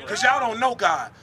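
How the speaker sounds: ordinary talk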